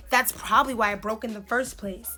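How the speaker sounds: sassy, head-tilting retort; mock neck-rolling attitude. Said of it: "don't be neck rolling at me".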